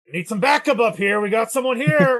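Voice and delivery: high, yelling guard call shouted out. Voicing a guard calling for backup: yelling guard character. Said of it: "he yells again".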